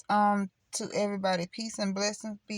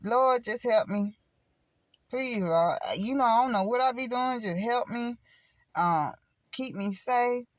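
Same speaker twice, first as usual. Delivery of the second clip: plain honest prayer; 3 semitones higher than usual. Shown as a demonstration. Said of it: "you wanna know how?".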